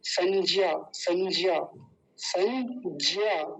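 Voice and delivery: संज्ञा said as sanjiya with a plain j; wrong ज sound. Retold or imitated. Teacher mimics the common mistake: संज्ञा with j. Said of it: "तो पता है क्या कहेंगे".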